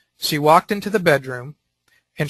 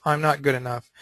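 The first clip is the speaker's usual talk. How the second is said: saying it to herself; 3 semitones lower, 6 dB quieter than usual. Acted. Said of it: "she's saying to herself".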